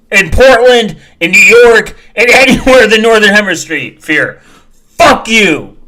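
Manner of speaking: loud, high, exasperated rant; angry yelling. Real, not acted. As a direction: yell it, half laughing at them. Yelling at commenter on screen.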